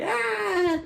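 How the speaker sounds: high, drawn-out mock laughing cry; imitated laugh. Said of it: "he's laughing".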